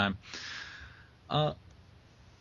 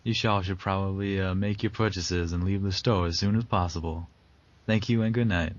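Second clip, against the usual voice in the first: light Southern twang on a store closing announcement; a smooth Southern twang, announcing closing time. Retold or imitated. Mock store announcer to customers, light Southern twang. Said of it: "I was intentionally throwing a Southern twang in there".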